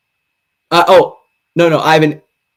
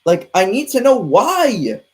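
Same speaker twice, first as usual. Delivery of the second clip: mock lament. Melodramatic prayer to the Lord.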